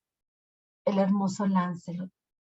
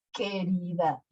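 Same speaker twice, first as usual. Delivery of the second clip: softer mock echo of querida; 4 dB quieter, slower than usual. Witch mimicking Lancelot's endearment, mild mock tone. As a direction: Querida said back teasingly, a mild sneer. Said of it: "dijo la bruja burlándose".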